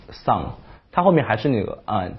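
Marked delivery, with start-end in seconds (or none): 0.1-0.4 sun with an open ah vowel; wrong sun. Retold or imitated. Imitating how learners say sun. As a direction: say sun as san. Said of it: "你会读成sun".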